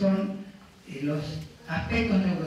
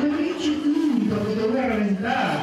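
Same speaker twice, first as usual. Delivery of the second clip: tono amable; 3 semitones higher than usual. Shown as a demonstration. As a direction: coo a threat as if it were affection. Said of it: "pero en tono amable". (tono cariñoso y amable, como a un perro)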